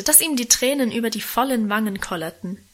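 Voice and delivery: plain reading voice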